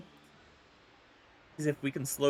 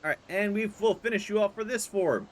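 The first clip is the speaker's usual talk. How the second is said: dramatic hero voice; 7 semitones higher, 3 dB louder than usual. Pretend. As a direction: deliver the finishing blow grandly. Voicing a dramatic final strike.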